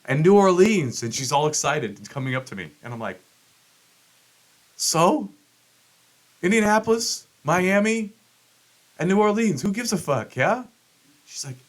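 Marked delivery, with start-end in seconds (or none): 4.8-10.6 high scoffing so-what voice; who cares, pitched way up; mocking dismissal. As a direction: brush off her excitement with a high sneer. Mocking wife's excited city list.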